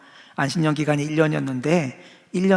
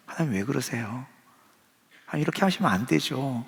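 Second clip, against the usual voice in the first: soft complaint; 3 semitones lower, 6 dB quieter than usual. Retold or imitated. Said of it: "이런 말을 하고 싶을 때가".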